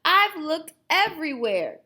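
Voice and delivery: high, loud, mock-weepy toothless yes; a hammed-up tearful old man; mildly tearful toothless grandpa. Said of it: "with tears in his eyes".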